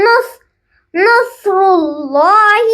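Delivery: نصر said with nun flowing straight into sad; join nun to sad. Shown as a demonstration. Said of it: "نون کو صاد سے mix کرنا ہے". (نصر میں نون کو صاد سے ملائیں)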